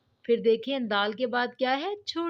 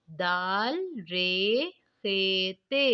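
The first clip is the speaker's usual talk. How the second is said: slow spelling; 2 semitones lower, much slower than usual. Shown as a demonstration. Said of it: "अब हम नीचे वाली line पढ़ेंगे".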